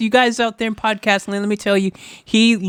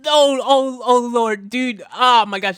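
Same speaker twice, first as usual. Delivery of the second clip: breathless, gasping between words; panting with excitement; out of breath; 3 semitones higher than usual. Real, not acted. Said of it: "I gotta catch my breath".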